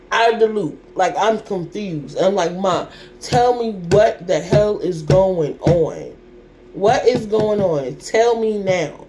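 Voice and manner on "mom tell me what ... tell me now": angry demand. Retold or imitated. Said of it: "getting so pissed".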